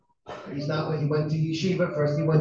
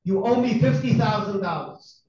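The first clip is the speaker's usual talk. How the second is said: higher, retold angry demand; 4 semitones higher than usual. Angry father demanding money by phone, very angry. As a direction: imitate an irate caller making demands. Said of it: "in a very angry voice".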